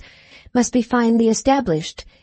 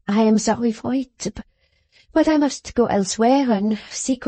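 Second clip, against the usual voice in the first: put-on a gentle, mild French maid with a light accent; mildest voice. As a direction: maid bidding the young lady farewell, mildly. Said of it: "in her pretty accent and in her mildest voice".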